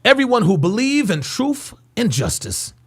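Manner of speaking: mock his put-on inflections; mocking impression. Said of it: "Do you hear his fake voice inflections?".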